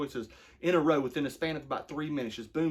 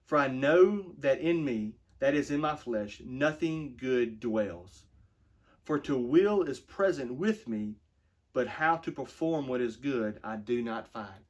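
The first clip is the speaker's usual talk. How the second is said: slower, more emphatic rereading; slower than usual. Shown as a demonstration. Pastor rereading the verse to drive it home, slow and emphatic. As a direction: lean harder into know and nothing. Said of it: "let me read that again".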